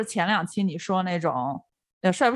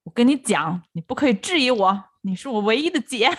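domineering ceo; 3 semitones higher than usual. Retold or imitated. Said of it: "那霸道总裁是刻进骨子里的".

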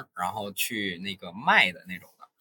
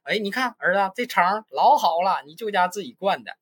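lightly acted bragging mom, higher; mock sales pitch; 8 semitones higher than usual. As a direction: talk up the sausage like an advert. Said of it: "我假设的点就是我妈妈说".

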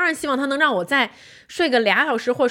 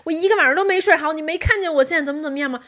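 higher, fast, mock-angry ranting; retold furious outburst; 5 semitones higher, much faster than usual. Woken wife snapping at husband, retold fast and angry. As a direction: replay the blow-up, fast and heated. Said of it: "这时候我暴跳如雷".

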